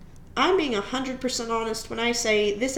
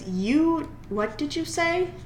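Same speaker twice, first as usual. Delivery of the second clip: menacing teacher; 5 semitones higher, slower than usual. Retold or imitated. Teacher grabs student by collar.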